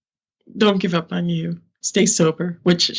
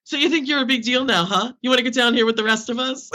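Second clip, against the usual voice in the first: teasing Brooklyn Irish relative, higher voice, Irish lilt; Irish accent; 6 semitones higher, faster than usual. Retold or imitated. Family member deflating her after her first show, mocking Irish accent. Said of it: "I like to put an Irish accent on the story".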